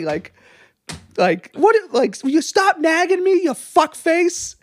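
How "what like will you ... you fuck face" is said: high-pitched comic outburst, stretched at the end; funny mock anger. Showing co-host his joking comeback to a nagging coworker, mock anger. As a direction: exaggerate the irritation for laughs. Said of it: "you make it funny".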